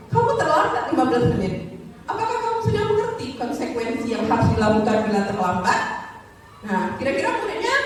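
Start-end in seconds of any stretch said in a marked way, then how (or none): 0.1-5.8 firm. Acted. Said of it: "Tegas, ya".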